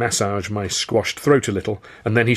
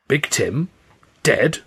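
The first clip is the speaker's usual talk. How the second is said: higher, halting questions; stunned disbelief; 5 semitones higher, slower than usual. A narrator's reading. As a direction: let each question rise, bewildered. Thug stunned by boss's death.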